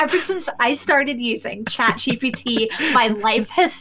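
cheesy ad testimonial; lightly hammed-up sales pitch; infomercial voice. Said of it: "sound like a bad infomercial".

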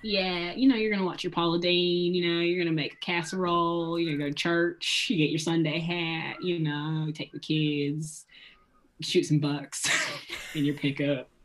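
lightly hammed Southern accent; put-on Southern accent. Riffing on Southern stereotypes for a co-host, mock Southern accent. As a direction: play at a Southern accent, listing away. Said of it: "Yankee version of the Southern accent".

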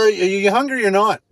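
loud, fed-up demand; exasperated shout. Retold or imitated. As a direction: snap at them impatiently.

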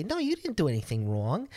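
lightly voiced girl reassuring him; "No, you didn't do anything wrong" said lightly, no accent; girl's reassurance. Girl reassuring him after the library, lightly voiced. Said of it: "I was like".

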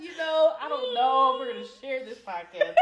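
talking through laughter; squeezed out between laughs; laughing. Real, not acted. Laughing hard while talking.

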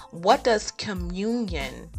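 ordinary delivery

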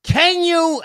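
shouting at the insurance agent mid-call. Retold or imitated. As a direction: snap at her, cutting in. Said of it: "I didn't raise my voice".

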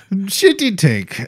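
put-on slow Russian accent; fake Russian accent. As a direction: drawl it out like a Russian. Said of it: "I only speak Russian now".

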